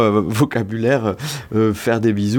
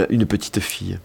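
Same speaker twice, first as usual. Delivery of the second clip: southern accent; 2 semitones lower, 4 dB quieter than usual. Shown as a demonstration. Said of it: "On dit une petite fille et pas une petite fille".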